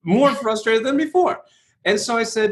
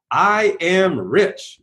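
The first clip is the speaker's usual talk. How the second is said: slow affirmation; much slower than usual. Shown as a demonstration. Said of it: "a classic affirmation is".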